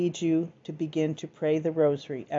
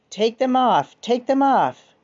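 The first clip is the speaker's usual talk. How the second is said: higher-pitched, narrated cry of torment; mildly raised cry, pitched up; fearful shriek, restrained; 7 semitones higher, 7 dB louder, slower than usual. A narrator's reading. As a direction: read a possessed girl's shriek as a contained, urgent plea. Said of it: "began to scream and yell in a fearful way, shrieking".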